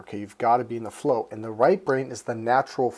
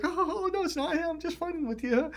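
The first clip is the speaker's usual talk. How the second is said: high laughing fake brush-off; mock laughing dismissal. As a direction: laugh it off as if only joking, much higher. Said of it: "they're like".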